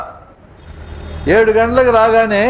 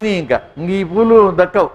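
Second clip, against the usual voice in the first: smiling. Retold or imitated. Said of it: "ఈయన చిరునవ్వుతో".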